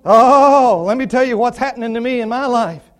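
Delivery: mock lament opening on a long loud "Oh"; hammed-up woe-is-me opener; pity-party complainer. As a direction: lightly act out someone airing their troubles. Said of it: "the pity party".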